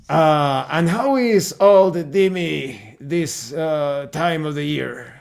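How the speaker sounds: put-on old man's broken German with a Russian accent; slow, thick Russian accent; heavy Russian accent. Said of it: "with a heavy Russian accent".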